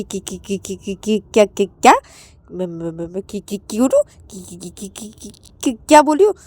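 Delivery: flustered stammer. Acted. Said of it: "सोचती कि".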